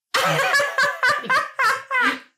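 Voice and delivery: carcajada muy aguda y fuerte, de burla; carcajada imitada. Retold or imitated. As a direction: suelta una risotada aguda burlona. (carcajada aguda de burla)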